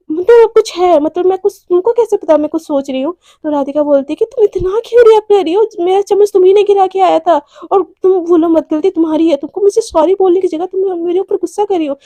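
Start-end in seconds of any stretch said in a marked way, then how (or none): 0.1-3.1 defensive outburst. Acted. Jealous girlfriend confronts partner. 4.3-12.0 higher and louder, hurt and indignant; angry shout. Acted. Girlfriend blamed for jealousy, shouting back indignantly. Heated quarrel between girlfriends.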